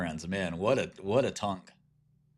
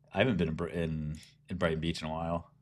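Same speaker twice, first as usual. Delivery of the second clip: ordinary talk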